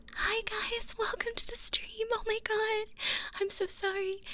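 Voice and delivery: high, squeaky flustered greeting; flustered excitement. Real, not acted. Streamer welcoming raiders mid-fluster, high and excited.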